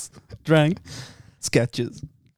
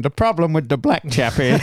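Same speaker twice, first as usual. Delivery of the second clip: put-on Irish accent. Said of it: "we're doing an Irish accent going".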